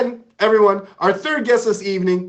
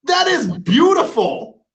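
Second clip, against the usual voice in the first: high, slow, gushing praise; delighted praise; 12 semitones higher, 4 dB louder than usual. Real, not acted. Host gushing over the guest's painting, high and slow.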